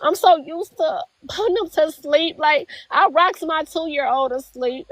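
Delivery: real tearful upset, pitch lifting; fighting back tears; getting emotional. Real, not acted. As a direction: talk through rising emotion about the babies. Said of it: "I'm getting emotional".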